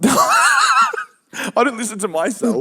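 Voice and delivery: high, slow mock shout; mocking echo. Mimicking co-host's remark about himself, high exaggerated shout. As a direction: parrot it back in a stretched yell.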